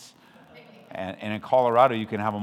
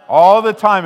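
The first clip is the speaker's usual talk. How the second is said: loud, high shouted reply; loud church response; congregation response; 10 semitones higher, 17 dB louder than usual. Retold or imitated. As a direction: answer back like the whole church. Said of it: "and the church says".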